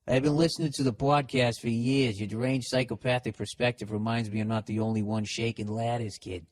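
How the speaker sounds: put-on listener's letter re-read in a Boston accent. Host testing if the letter sounds Bostonian, Boston accent. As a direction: read it run-on with a Boston twang. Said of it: "even if the accent".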